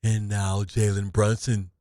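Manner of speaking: prophesy like a theatrical soothsayer; Barstradamus prophet voice. Acted. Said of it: "It's Barstradamus".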